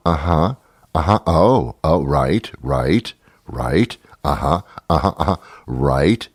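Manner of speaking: low, rising automatic agreement noises; pathetic yes-man. Retold or imitated. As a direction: imitate a listener helplessly agreeing along. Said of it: "Oh, it was pathetic".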